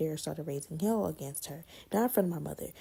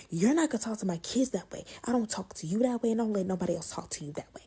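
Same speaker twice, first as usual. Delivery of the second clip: mock angry aunt; 4 semitones higher than usual. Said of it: "walk up to me talking".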